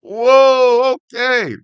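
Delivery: a loud, high, startled whoa that falls away; jolted by the line, blurt it out; surprised whoa. Real, not acted. Shocked by what he just read.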